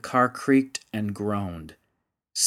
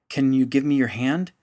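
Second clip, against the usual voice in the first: lightly raised call downward; 3 semitones higher, 4 dB louder than usual. Acted. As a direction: call down to the child below. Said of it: "he called down to the little girl".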